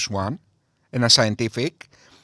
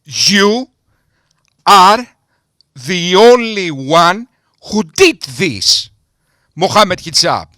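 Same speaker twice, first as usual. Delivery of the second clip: slow, spaced words with long pauses, louder; mock calm; 3 semitones higher, 5 dB louder, slower than usual. Spelling it out slowly to Mohammed Hijab, pausing between words. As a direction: lay it out word by word, pausing hard. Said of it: "let me say this as calmly as possible".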